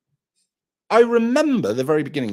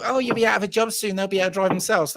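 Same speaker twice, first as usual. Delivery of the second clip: mocking people; 10 semitones higher than usual. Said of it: "people go".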